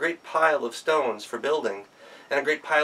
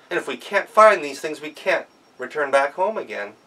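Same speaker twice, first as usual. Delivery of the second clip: higher, louder, pleading in distress; begging a stranger for help, voice raised in worry; desperate plea; 4 semitones higher, 7 dB louder than usual. Acted. Daughters-in-law plead with stranger for help, distressed and loud.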